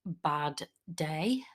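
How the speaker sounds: low, sad confession. Retold or imitated. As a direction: imitate a friend admitting a bad day under their breath. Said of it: "They're like".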